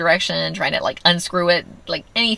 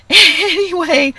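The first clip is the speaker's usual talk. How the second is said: laughing it off; 14 semitones higher, 7 dB louder, much slower than usual. Real, not acted. Laugh heard on line.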